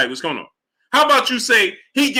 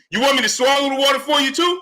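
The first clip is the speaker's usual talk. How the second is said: raised, incredulous shout; exasperated outburst; 4 semitones higher, faster than usual. Real, not acted. Streamer venting at his chat, raised and incredulous. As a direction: throw the question at them, fed up.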